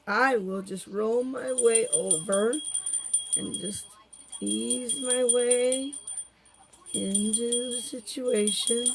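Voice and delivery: slow, drawn-out cat voice, easing into each word; slow lazy pet voice. Retold or imitated. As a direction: voice a lazy cat slowly rolling over. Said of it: "babe says".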